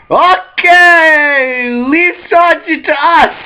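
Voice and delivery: high, loud frantic shout; panicked yell. Retold or imitated. Crew voiced shouting in panic.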